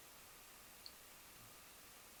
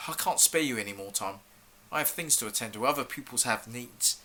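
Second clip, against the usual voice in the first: resigned dismissal; 5 dB quieter than usual. Acted. Teacher gives up on pupil.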